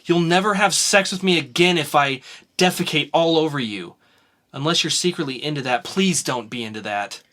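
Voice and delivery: a hint of a laboring woman's sarcasm; lightly voiced Alana. Alana snaps at Marco mid-birth, lightly voiced. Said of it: "Alana doing the characters".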